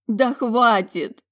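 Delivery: slow, high, loud cry of despair; slow high outburst near tears; exhaled, holding back tears. Acted. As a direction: force it out through tears. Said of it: "выдохнула, борясь со слезами".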